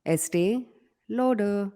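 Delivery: "Estee" rising, then "Lauder" separately; syllable by syllable "Estee ... Lauder"; slow demo pronunciation. Shown as a demonstration. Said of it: "say, please?".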